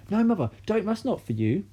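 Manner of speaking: high, loud, urgent pleading; mother pleading with grandma in alarm; alarmed plea. A narrator's reading. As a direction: beg her to stop. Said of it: "cried Missus Cranky".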